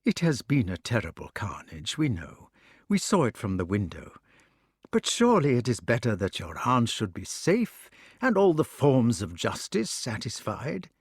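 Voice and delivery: a touch of kindly king; kindly coaxing. Acted. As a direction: soothe him like a worried father. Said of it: "he said kindly".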